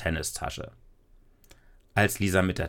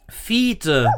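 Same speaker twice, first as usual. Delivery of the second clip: high, loud surprised call; 9 semitones higher, 5 dB louder than usual. Acted. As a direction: call the dog's name out, much higher and louder. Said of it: "rief Lisa".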